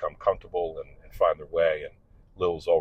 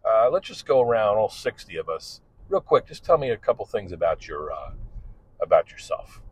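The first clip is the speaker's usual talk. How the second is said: upbeat, louder classroom host voice; mock-enthusiastic teacher opening day; cheery teacher; 4 semitones higher, 3 dB louder than usual. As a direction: greet sixty students like a peppy instructor. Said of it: "when I would say".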